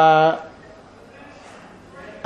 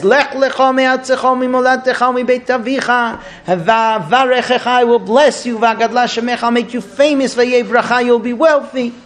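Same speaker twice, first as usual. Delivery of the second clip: scripture recitation; 4 semitones higher than usual. Acted. Recites Torah verse, translating by phrase.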